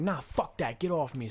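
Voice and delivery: mild mock yell; retold screaming. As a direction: shake someone off angrily, short of a scream. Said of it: "screaming at the kid".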